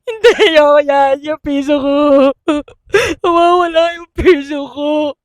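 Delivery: loud hammed-up wailing; drunk wailing. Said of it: "Yak daw talaga siya".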